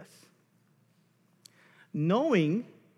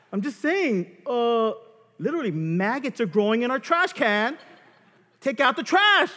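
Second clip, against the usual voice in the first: laughing; 7 semitones higher, 7 dB louder than usual. Real, not acted. Laughing mock of wife's nagging.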